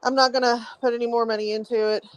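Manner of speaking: shallow breathing, short of air; winded, huffing between words. Real, not acted. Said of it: "sorry, I'm so out of breath".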